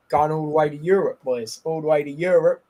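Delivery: bad Australian accent impression; hammed-up Aussie twang. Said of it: "that was the worst Australian accent I've ever done".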